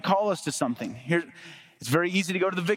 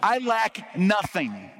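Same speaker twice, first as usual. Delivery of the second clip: slow, high-pitched proud boast; drawn-out boast with raised pitch; bragging; 4 semitones higher, much slower than usual. Retold or imitated. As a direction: brag it out, stretching each word. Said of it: "here's what he's bragging".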